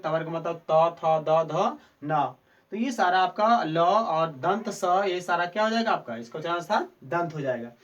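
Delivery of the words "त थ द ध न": त, थ, द, ध, न spelled out one by one against the teeth; दाँत से त, थ, द, ध, न बोलकर दिखाना; dental sounds demo. Shown as a demonstration. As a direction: list the tavarg sounds clearly. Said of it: "लिरी तवर्ग".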